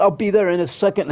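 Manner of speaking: lightly voiced mocking dentist. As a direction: parrot her excuse with scorn. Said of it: "you say".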